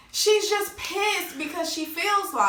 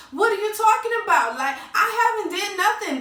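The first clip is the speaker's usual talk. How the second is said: higher, louder, laughing it off; laughing mock denial; 7 semitones higher, 4 dB louder than usual. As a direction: brush off the accusation with a laugh. Jen denies, laughing.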